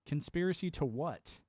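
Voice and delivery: Conspiracy said slowly, flatly challenging; slow challenging retort. Retold or imitated. Answering the doubter's scoff, slow and pointed. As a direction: drag out Conspiracy to what, daring an answer. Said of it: "I was like".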